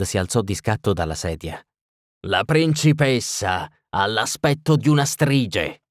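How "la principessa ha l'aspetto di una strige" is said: higher, slow outburst; shouting. Acted. Burgomaster erupts at the witcher about the princess, shouting. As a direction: bellow it out, drawing it out. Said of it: "urlò".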